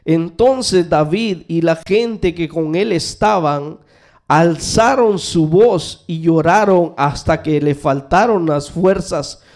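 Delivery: slow, measured Bible reading; scripture reading. Acted. Pastor reads Samuel to the church, slow and solemn. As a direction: read each phrase deliberately to the congregation.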